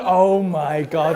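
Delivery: slow, drawn-out mock amazement; stunned disbelief. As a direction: stretch it out as if dumbstruck. Acting out his stunned reaction.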